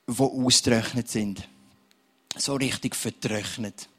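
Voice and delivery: earnest spoken prayer over the room. Real, not acted. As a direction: pray earnestly for the dry ones. Pastor prays over congregation.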